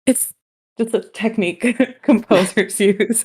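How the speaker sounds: playful, laughing repeat of the phrase. Retold or imitated. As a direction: echo it slowly through a laugh. Laughingly echoing the friend's phrase.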